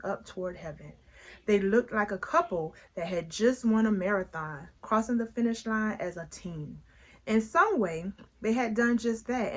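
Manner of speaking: measured, even read-aloud narration; story reading. Acted. Author reading the opening of her novel to viewers, calm storytelling. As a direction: read it like a story time for grown-ups.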